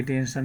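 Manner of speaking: "अटेंशन" begun with ए, ay-TEN-shun; quick mispronounced "अटेंशन" with an ay opening; wrong first vowel. Shown as a demonstration. Teacher repeats what we won't say, wrong-vowel demo. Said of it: "नहीं बोलेंगे इसको".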